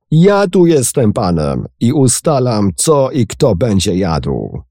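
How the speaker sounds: captain insists he is master here; shout. A narrator's reading. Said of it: "krzyknął". (kapitan krzyczy, że tu rządzi)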